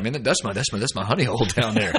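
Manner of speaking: bristling friend hamming up his outrage; mock pissed off. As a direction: act out the friend getting riled, half in jest. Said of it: "You were all, you were all pissed off".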